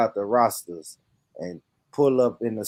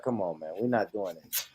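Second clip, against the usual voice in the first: put-on Jamaican accent. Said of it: "get on code and be like".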